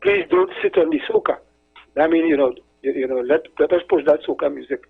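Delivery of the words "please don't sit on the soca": quoting a radio host. Retold or imitated. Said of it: "he will end with saying".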